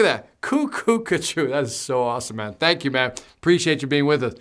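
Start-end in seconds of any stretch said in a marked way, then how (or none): 0.4-1.5 silly high voice. Pretend. Repeating the silly name.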